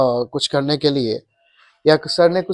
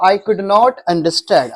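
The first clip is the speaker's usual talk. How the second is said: slow model sentence; 2 semitones higher, much slower than usual. Shown as a demonstration.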